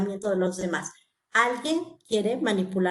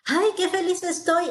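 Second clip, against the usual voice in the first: higher, gushing happy exclamation; mock happy gush; 7 semitones higher than usual. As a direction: act out a cheerful claim of happiness. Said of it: "se vio en mi rostro que estoy feliz".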